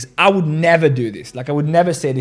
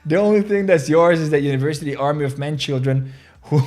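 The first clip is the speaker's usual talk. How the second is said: laughing while reading. Retold or imitated. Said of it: "Ansem goes nuts".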